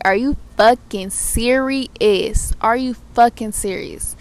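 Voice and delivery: slow, loud, fed-up disbelief; exasperated disbelief. Retold or imitated. To the cop pulling her over, slow loud disbelief.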